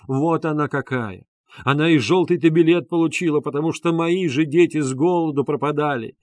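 loud, high hoarse pleading cry; desperate sobbing plea. Acted. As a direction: beg them to defend her, near tears. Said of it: "Плач бедной".

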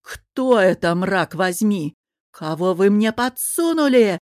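loud furious yell, slowing on the curse. Acted. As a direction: roar it in disgust and rage. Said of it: "а потом заорал". (орёт в ярости)

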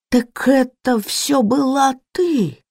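high, slow, stunned accusation; shocked realization. Acted. Maid realizes the cook did it, high slow shocked cry. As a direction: it dawns on her, drawn out.

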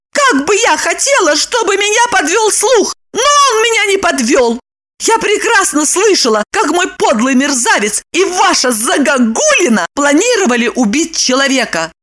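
high, furious woman's voice; angry Lipochka. A narrator's reading. Lipochka shaking fists at Roman, high.

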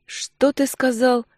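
slow, sweetly menacing question; mock concern. A narrator's reading. Husband mockingly asking the thug, slow fake concern. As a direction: smile while you threaten. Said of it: "с участливой улыбкой".

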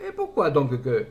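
southern concierge. Acted. Concierge answering in Midi voice.

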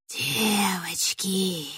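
slow, breathy witch whisper; drawn-out eerie whisper. Acted. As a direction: hiss the word out slowly, like a witch luring girls. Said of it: "прошептала желтоглазая ведьма".

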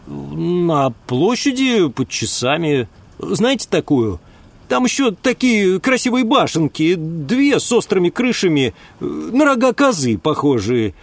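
put-on a simple-minded country boy; chatty village lad. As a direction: spin the tale innocently. Ulm tells his story.

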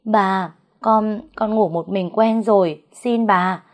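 understated imploring tone; begging. Acted. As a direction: beg the mistress, a little plaintively. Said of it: "van xin".

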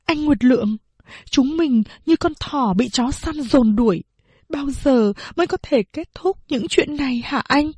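a hint of tears as she begs her husband; tearful plea. Wife in tears asks her husband when it will end, mild tearful voice. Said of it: "nước mắt giàn giụa hỏi".

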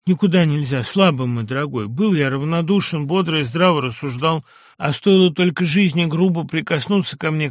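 bitter, heavy lament ending in an anguished cry; a lightly voiced despairing madman; despairing patient's lament. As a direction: mourn how weak we all are. Ivan Dmitrich despairing speech.

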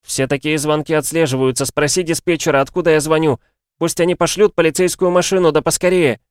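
put-on high, loud, desperate boy; urgent pleading. A narrator's reading. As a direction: urge them to send help at once. Boy urgently begs for rescue. (настойчивая громкая мольба)

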